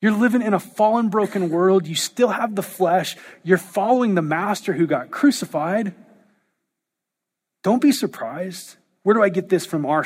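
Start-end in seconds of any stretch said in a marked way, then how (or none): 0.0-8.8 lightly voiced Peter. Peter answering the complaining believer, a touch of teasing. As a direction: shrug it off like an older brother. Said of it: "Peter's like".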